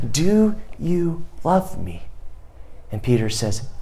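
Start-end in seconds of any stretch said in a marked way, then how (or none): 0.1-2.0 tender question. A narrator's reading. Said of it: "Jesus says to Peter".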